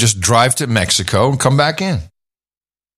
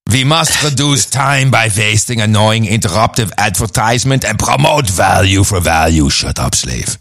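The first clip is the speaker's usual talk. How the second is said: horrible mock German accent, barking the lines; hammed-up fake German accent with shouted peaks. Reading a listener's note in a mock German accent. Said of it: "Preferably read by Adam in his horrible fake German accent".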